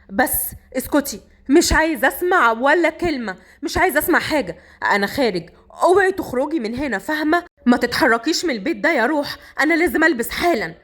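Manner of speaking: mildly angry, firm orders. Acted. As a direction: cut her off with a touch of temper. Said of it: "صقر رد بغضب".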